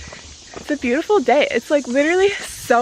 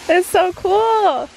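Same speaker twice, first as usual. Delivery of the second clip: awed; 8 semitones higher, 4 dB louder, slower than usual. Real, not acted. Awed at the view.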